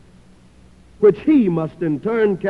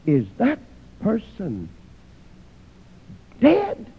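shocked disbelief; 2 semitones higher than usual. Acted. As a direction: voice Christ's horror as he asks if the soul is dead. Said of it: "He looks down in shock and he says".

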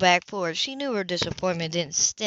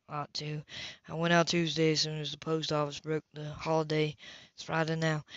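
Ethan's voice; 3 semitones lower, 5 dB quieter than usual. Acted. Ethan replies low and even.

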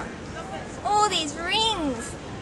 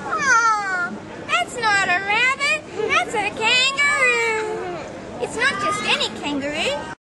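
surprised; 5 semitones higher, slower than usual. Acted. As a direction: act amazed at the kangaroo. Surprised at the wrong animal.

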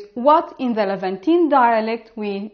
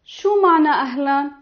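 fast; 3 semitones higher, much faster than usual. Shown as a demonstration. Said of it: "And it will be like".

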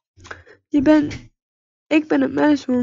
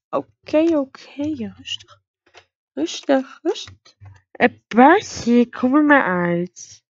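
slow coaxing; 2 semitones higher, slower than usual. Acted. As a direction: gently lure the horse out. Coaxing scared horse out.

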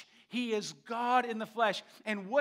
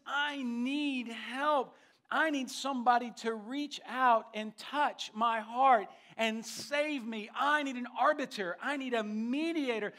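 preacher voicing Job's desperate plea; raised, drawn-out cry for help; 3 semitones higher, 3 dB louder than usual. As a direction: plead out loud as Job, stretching key words. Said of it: "Job is crying out".

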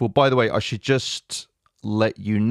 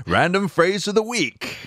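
higher-pitched, giggling through the title; laughing announcement; 11 semitones higher than usual. Real, not acted. Host introducing the segment to the co-host, laughing.

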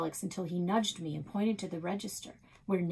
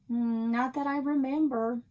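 higher, louder, lightly voiced old woman; Nan's voice; 6 semitones higher, 6 dB louder than usual. A narrator's reading. Nan answers the sheriff's question with a high, offhand denial. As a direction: play it off lightly and innocently, pitched up.

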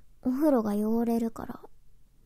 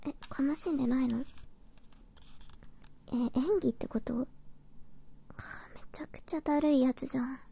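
whispering; 6 dB quieter, faster than usual. Acted. Whispers most lines.

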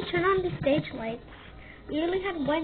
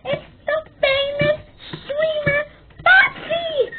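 calling out; 11 semitones higher, 5 dB louder, slower than usual. Acted. Announcing the famous streamer.

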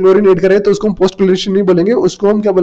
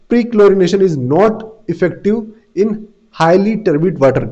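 word by word, very slow and clear, for students to copy; slow classroom dictation; much slower than usual. Shown as a demonstration. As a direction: dictate each word so the class can write it down. Teacher dictates a note.

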